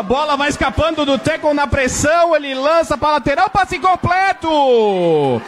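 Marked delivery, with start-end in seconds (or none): 3.5-5.4 excited call. Real, not acted. Completed pass called twice.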